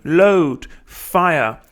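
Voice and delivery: battle command. Acted. Poem's gunner shouting to load and fire, mock command. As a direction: call out the order like an officer.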